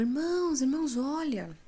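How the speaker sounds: high urgent call to the brothers; calling out urgently. Retold or imitated. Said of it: "E eu falava".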